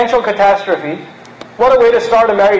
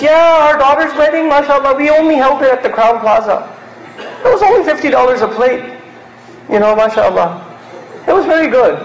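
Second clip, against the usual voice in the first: bragging elder; 3 semitones higher than usual. Retold or imitated. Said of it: "Some of you elders do this".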